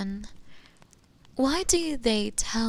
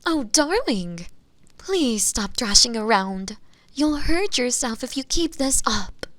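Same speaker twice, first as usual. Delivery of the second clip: higher, louder fussing plea; alarmed concern; 3 semitones higher, 4 dB louder than usual. Acted. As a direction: fuss over a struggling sweetheart. Captive thrashes, witch protests.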